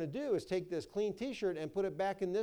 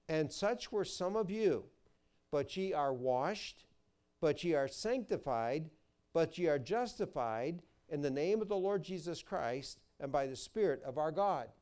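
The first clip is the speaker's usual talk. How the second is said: scripture reading. Acted. Preacher reading Corinthians to his congregation, solemn and measured. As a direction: read the verse like holy writ.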